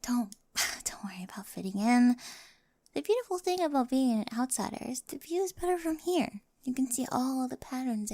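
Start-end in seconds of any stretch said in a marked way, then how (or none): 0.0-2.2 whisper. Acted. Gentle reassurance.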